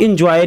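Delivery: "एंजॉय" wrongly begun with a short "in"; mispronounced first vowel. Shown as a demonstration. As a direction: say "एंजॉय" as in-joy. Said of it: "इसको आप एंजॉय नहीं पढ़ेंगे". ("एंजॉय" को गलत ढंग से इन्जॉय बोलें)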